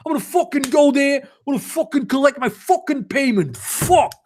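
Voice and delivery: furious rant. Real, not acted. Reader fed up with Draco, fast angry swearing rant. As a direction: spit out the curses in a rising rant.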